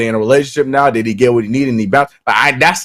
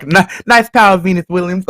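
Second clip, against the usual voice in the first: slightly raised impression voice; half-committed impression, pitched a bit higher; Will Smith as Richard Williams; 4 semitones higher than usual. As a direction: nudge the pitch up for a movie-dad impression. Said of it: "make your voice a pitch, a little pitch higher".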